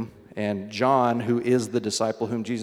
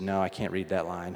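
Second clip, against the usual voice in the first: lower, mildly nervous mock child; 4 semitones lower, 4 dB quieter than usual. Dad retelling son's eye test, mildly nervous. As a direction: quietly imitate a child who is unsure. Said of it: "he was kinda nervous".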